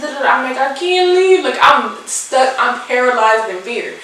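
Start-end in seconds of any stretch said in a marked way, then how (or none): 0.6-1.4 panicked refusal. Retold or imitated. Frozen, refusing boss.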